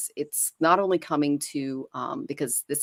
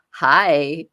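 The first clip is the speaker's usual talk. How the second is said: louder, voiced cat greeting; cat's greeting; 9 dB louder than usual. Cats greeting their chosen human, loud and eager. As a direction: call out a hello as the cat. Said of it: "they see and go".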